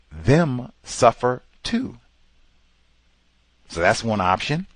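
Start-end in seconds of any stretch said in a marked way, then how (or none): none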